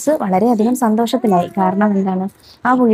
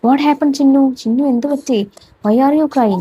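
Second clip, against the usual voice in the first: a touch of a worried mother goat, higher; mild worried call, higher; 5 semitones higher, much slower than usual. Acted. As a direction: lightly call out to the crying kid. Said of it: "Mom called out".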